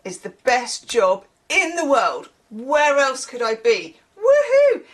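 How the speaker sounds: lightly put-on Aussie drain man, cheery; a hint of Australian, rising to a whoop; a loose Australian drain man, cheery; half-hearted Australian accent. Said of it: "can't do his accent".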